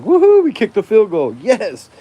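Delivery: loud, high mock celebration of a field goal; mock cheering. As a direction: cheer it like a fan faking joy. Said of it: "I'm like".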